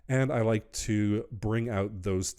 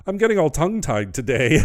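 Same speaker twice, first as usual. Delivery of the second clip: loud, higher, breaking into a real laugh; amused self-mockery; 6 semitones higher, 9 dB louder, faster than usual. Real, not acted. Crafter owning up to getting tongue-tied, laughing at herself. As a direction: laugh off your own fumble, louder and higher.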